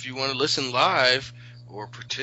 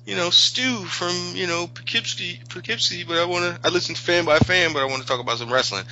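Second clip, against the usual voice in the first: higher, eager fan caller voice; a keen caller from Poughkeepsie; imitated caller; 8 semitones higher, faster than usual. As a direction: play an excited listener calling in.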